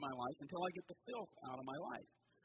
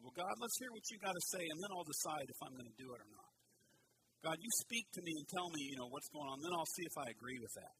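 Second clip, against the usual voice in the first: prideful attitude. Pretend. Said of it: "That's a prideful attitude".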